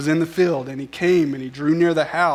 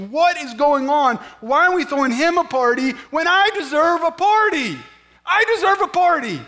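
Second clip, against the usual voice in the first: higher, louder whiny outrage; resentful sibling, pitched up and indignant; indignant older brother; 8 semitones higher, 3 dB louder than usual. Pretend. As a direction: play the jealous brother complaining to his father. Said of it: "I get what the older brother is thinking".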